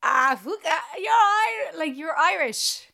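high, half-crying exclamation of disbelief; excited disbelief. Retold or imitated. Retelling meeting the Newfoundland comedian, high excited disbelief. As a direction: replay the shock of hearing his accent.

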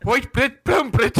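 high, put-on South African accent. Drunk at the bar, showing off her South African accent. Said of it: "a way to do a South African accent".

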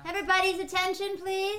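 high, quick announcement; calling for attention. Real, not acted. Host asking a room of friends for attention, high calling voice. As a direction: pitch it up to gather the room.

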